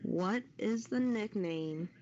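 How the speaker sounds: usual speaking voice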